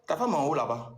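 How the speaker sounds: high, mock-surprised receptionist greeting; imitating receptionist. Receptionist greets Fabio at the hotel door, high mock surprise. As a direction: squeal it like the delighted receptionist. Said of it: "elle a dit".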